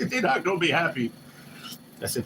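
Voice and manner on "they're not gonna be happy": higher voice, laughing through the joke; laughing mock worry. Telling the viewers his folks would be mad, laughing. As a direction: chuckle out the warning.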